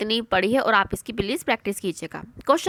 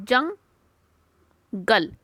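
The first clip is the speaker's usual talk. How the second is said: जंगल drawn out very long; teacher drawing out a word; stretched demo word; much slower than usual. Shown as a demonstration. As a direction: hold जंगल long and slow. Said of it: "क्या होता है?".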